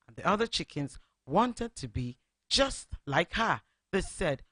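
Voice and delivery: put-on lively read-aloud for children; storybook narration. A narrator's reading. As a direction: tell it like a bedtime story to little listeners. Radio host reads story to children.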